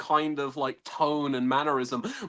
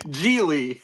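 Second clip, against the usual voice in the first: laughing. Real, not acted. Naming the awful film to friends, laughing. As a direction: laugh out the film's name.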